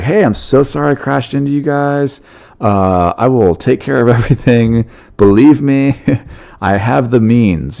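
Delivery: overacted fake-sincere apology; super acting mode. Smuggler hamming it up to the police, mock innocent. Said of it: "you gotta go into super acting mode".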